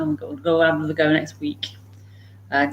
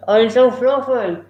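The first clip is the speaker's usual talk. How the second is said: pet talk; 4 semitones higher than usual. Real, not acted. Fussing over the dog.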